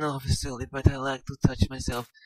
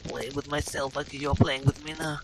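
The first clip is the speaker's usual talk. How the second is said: soft, whispered seduction; breathy sultry Lara; 4 dB quieter than usual. Acted. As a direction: coax him in a hushed come-hither voice.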